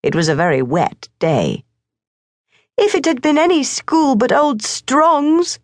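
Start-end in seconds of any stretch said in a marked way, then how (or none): 2.8-5.6 high, tearful little sister; a light touch of sobbing; sobbing girl. A narrator's reading. Mabel cries over her brother's packing, high and tearful. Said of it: "she sobbed".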